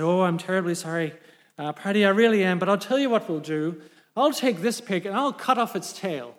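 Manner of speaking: lightly voiced Irish farmer; Irish accent. Farmer apologises to his neighbour, light Irish accent. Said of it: "Excuse my Irish accent".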